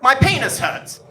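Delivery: understated, matter-of-fact announcement; deadpan. Retold or imitated. Dad's first words to his visiting son, deadpan. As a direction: state it bluntly with no greeting. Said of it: "looks at me dead in the eyes and just says".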